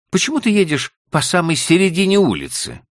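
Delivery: high, loud complaining wife; wife scolding. A narrator's reading. Wife scolding husband for driving mid-street, high and loud. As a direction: demand an answer, voice up high.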